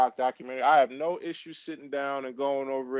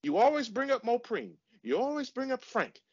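high-pitched, emphatic complaint; fed-up, raised-pitch rant; exasperated; 6 semitones higher than usual. Real, not acted. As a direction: scold your co-host for endlessly repeating himself. Exasperated quarrel with co-host.

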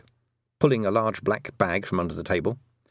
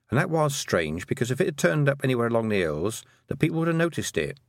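put-on higher-pitched girl character, explaining; earnest young Tiffany; 5 semitones higher than usual. Girl explaining the Baron's son's disappearance, earnest. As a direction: voice an earnest girl telling what happened.

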